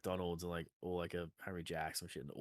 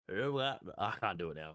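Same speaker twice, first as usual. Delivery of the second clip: put-on light old man voice. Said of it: "he's very just like".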